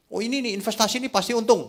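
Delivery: high, quick sales pitch; eager investment tout. Acted. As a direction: pitch it fast and high, sure of the profit.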